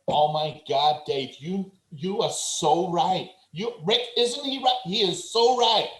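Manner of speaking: high, gushing, excited imitation of the wife; mock the wife raving with delight. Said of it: "she's going".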